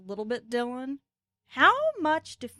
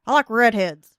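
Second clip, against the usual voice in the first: hammed-up horny caller; 11 dB louder than usual. Mock phone sex roleplay.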